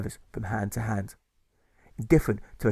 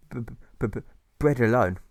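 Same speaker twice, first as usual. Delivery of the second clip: halting stutter on bread; stammer. Acted. Alfred refusing cake, stammering. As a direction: trip over the b.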